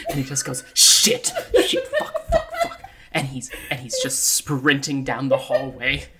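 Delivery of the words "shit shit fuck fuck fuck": loud, high burst of curses; panicked swearing. Acted. Character sees "cleaning in progress" and sprints, panicked shouting. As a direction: blurt curses in sudden panic.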